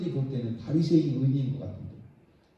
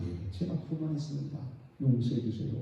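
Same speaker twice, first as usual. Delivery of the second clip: humble confession; 7 dB quieter than usual. Acted.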